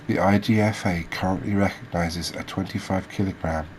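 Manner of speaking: measured read-out of fish facts; reading aloud. Real, not acted. Host reading species facts to viewers, informative read-aloud. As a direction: read it out like a documentary script.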